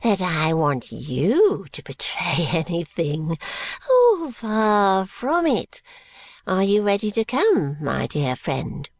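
swooping reassurance, sinking on the endearment; lightly voiced wheedling old schemer; coaxing old man. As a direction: backpedal smoothly, then nudge him along. Old man placates and coaxes.

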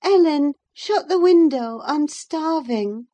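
high, fretful plea to the maid; peevish call. A narrator's reading. Catherine calling peevishly to Ellen, high and fretful. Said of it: "called peevishly to me".

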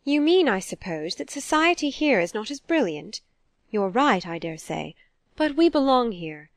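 animated reproach, pitch leaping on key words; lightly voiced offended mother. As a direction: defend your own circle, a touch wounded. Mother's offended speech in novel.

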